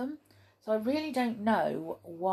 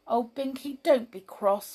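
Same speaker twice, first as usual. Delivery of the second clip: begging; 5 semitones higher than usual. Acted. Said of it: "begged Molly".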